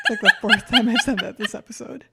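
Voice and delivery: laughing through it, fast and loud. Real, not acted. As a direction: speak while cracking up. Laughing while speaking.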